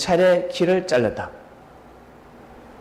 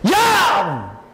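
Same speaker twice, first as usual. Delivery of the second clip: sharp yell; 5 semitones higher, 4 dB louder than usual. A narrator's reading. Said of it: "예수님이 소리를 꽥 지릅니다".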